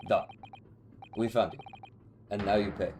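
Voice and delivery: put-on light Russian accent on a captor; lightly voiced Russian interrogator. Russian guy confronts the one he found, very lightly Russian. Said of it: "We'll go very lightly Russian".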